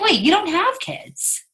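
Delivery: high, slow incredulous question; high, slow stunned query; surprised. Retold or imitated. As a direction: stretch out the disbelief. Mock surprised quote.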